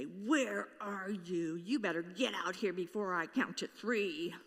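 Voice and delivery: a hint of an angry father counting to three; angry accusatory voice. Harsh God calling to hiding humans, accusatory. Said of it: "an angry, accusatory voice".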